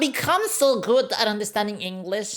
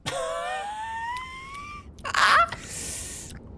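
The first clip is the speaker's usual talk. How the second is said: high-pitched wail; 5 dB quieter than usual. Real, not acted. Reacts to the race result.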